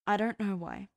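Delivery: mildly biting retort; a touch of bite. A narrator's reading. Dean answering Cass's doubt, mildly biting. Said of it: "he bit".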